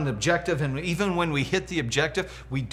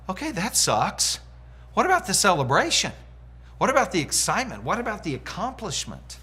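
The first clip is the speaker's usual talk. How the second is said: higher-pitched, incredulous protest; mock dismay; 5 semitones higher than usual. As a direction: question it in exaggerated disbelief. Acting out disbelief at coach's answer.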